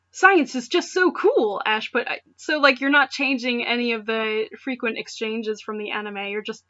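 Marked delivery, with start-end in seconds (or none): 0.1-1.6 gushing fanboy. Acted. Ash voiced in read story.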